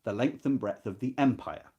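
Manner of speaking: measured, expressive reading of a novel passage; literary reading. Acted. Teacher reading a novel passage to students, expressive and measured. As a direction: read the prose aloud to the class with weight.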